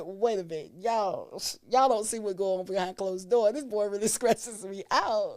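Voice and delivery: loud, laughing mock protest; playfully outraged, fighting for her side; exasperated protest. Telling her family he stresses her out, laughing protest.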